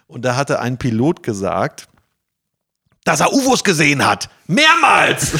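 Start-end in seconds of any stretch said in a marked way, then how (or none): 3.1-5.3 aufgeregt. Real, not acted. Staunende Enthüllung im Gespräch.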